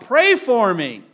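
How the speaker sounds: slow, high, loud mock plea; hammed-up child's wail for help; mock scream. Child being led out for discipline, a mock screaming plea. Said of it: "the child on the way out screams out".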